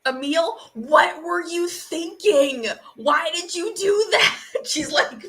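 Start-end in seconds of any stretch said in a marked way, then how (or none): 0.7-4.4 angry scolding. Acted. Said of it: "fucking angrily shaking him".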